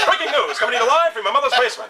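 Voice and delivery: news anchor. Pretend. Mock news report.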